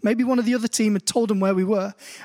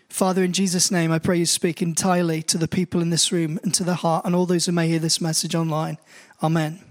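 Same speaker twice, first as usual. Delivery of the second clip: prayer; 4 semitones lower than usual. Real, not acted. Opening prayer before sermon.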